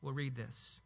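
ordinary talk

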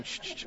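soft shushing page-rustle noise; quick hushed "shh" sounds for turning pages; imitated page flipping. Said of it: "hear those pages flipping".

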